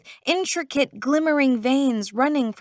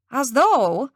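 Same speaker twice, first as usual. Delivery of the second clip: put-on Irish accent; 3 dB louder than usual. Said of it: "in an Irish accent".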